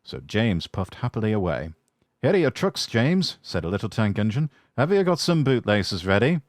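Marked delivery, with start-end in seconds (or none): 2.2-6.4 cheeky tank engine. Acted. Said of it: "ran off laughing rudely".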